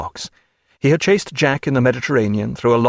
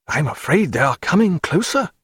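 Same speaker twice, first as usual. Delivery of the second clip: a higher, fluttering clergyman's voice; nervous parson; 4 semitones higher than usual. Acted. Chaplain frets to Stephen about the ships, high and fluttering. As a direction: play the timid chaplain, fussing.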